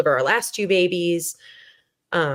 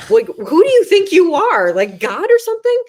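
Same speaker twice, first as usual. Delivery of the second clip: much higher and louder, indignant retold yelling; angry outburst; 13 semitones higher, 5 dB louder than usual. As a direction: hurl it at God in retold fury. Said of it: "I was so angry".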